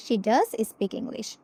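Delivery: "does" leaned on, slowly; stress on does. Shown as a demonstration. Teacher repeats the emphatic form with stress on does. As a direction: hit "does" to insist. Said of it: "সে ইংলিশেই কথা বলে".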